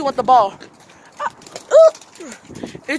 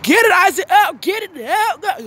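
cheering on; 5 semitones higher, 3 dB louder than usual. Real, not acted. Cheering brother playing with dog.

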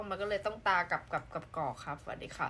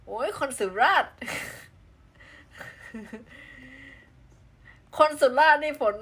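excited squeal; 6 semitones higher, 9 dB louder than usual. Real, not acted. Delighted at a fellow Surat viewer.

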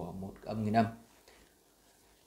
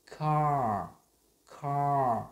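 "car" quicker and loud; faster car; 4 semitones higher, 5 dB louder than usual. Shown as a demonstration. Teacher speeding up car for learners. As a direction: clip "car" a bit faster. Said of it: "Nhanh hơn một chút nhé".

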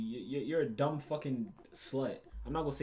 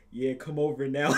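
mock girl texting; 8 dB louder than usual. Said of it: "texting somebody like".

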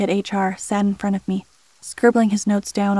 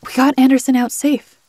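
indignant; 4 semitones higher, 6 dB louder than usual. Acted. Employee protests the review.

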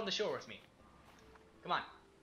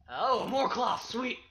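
excited; 7 semitones higher, 9 dB louder, much slower than usual. Real, not acted. Excited over more loot.

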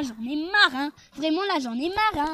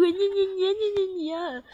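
mocking whine; 4 semitones higher, 3 dB quieter than usual. Mocking rich people complaining.

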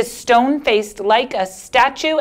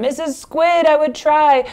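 higher fish voice; 7 semitones higher than usual. Acted. Fish answers.

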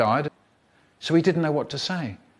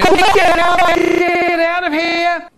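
high panicked scream; shouting; 5 dB louder than usual. Acted. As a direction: yell it at the top of your voice. Shouting scene, very high loud.

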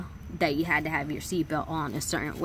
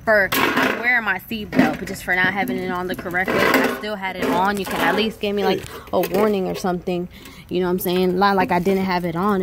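heated rant; 5 dB louder than usual. Real, not acted. Ranting about the ticket.

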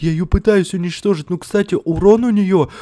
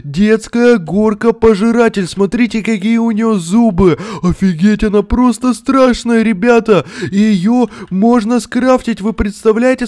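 excited; 3 semitones higher, 4 dB louder than usual. Real, not acted. Keeps hyping the scary monster.

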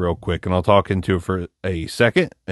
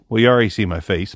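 ordinary talk, nothing marked

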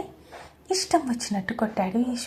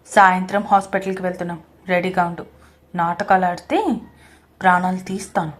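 low threat; 5 semitones lower, 3 dB louder than usual. Acted. Husband threatens his wife.

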